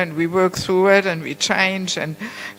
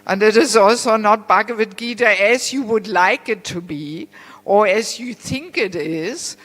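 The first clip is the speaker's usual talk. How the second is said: louder, punched-up quote of a teacher's reply; emphatic retold answer; 3 semitones higher, 5 dB louder than usual. Guru answering the lady who asked about his Gita, emphatic. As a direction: deliver the punchline with firm emphasis.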